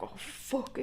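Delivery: breathy whisper of dread. Retold or imitated. Teen caught by her ma, a dreading whisper. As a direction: whisper it like you just got caught.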